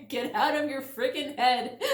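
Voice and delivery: bursting out laughing mid-sentence. Real, not acted. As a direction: laugh through the words. Laughing at the cards' message.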